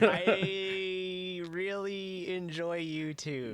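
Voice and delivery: very slow, high, giggling; laughing high voice. Pretend. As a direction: laugh through a sweet line. Mock affectionate banter.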